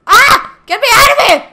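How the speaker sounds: high, loud yelp through laughter; laughing panic. Real, not acted. Player stuck in water, laughing panicked shout. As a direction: shriek and laugh at once.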